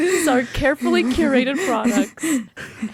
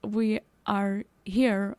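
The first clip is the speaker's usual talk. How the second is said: low, soft, smooth-talking merchant; a hint of a smarmy saleswoman; sly merchant voice; 4 semitones lower, 7 dB quieter than usual. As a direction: ooze innocence to talk past the guards. Player voices her character to guards.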